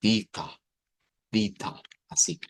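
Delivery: "vita" with a long final a; "vita", alargando la a final; transliterated vita. Shown as a demonstration. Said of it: "esta quedaría como bit". ("vita" pronunciado despacio)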